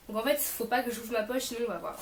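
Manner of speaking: ordinary delivery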